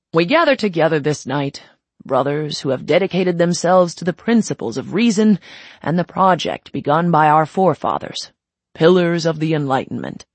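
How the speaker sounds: loud, well-worn ceremonial drone; droning speech. Acted. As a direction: recite it like a speech given a hundred times. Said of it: "the High Princept droned on".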